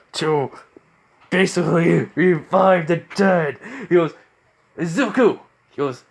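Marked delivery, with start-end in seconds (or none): 4.8-5.4 calling out. Acted. Father calling son's name.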